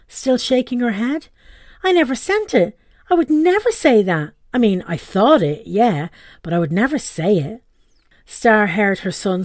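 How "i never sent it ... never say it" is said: flustered mum. Acted. Mum flustered, denying to her son. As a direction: deny it in a rising fluster.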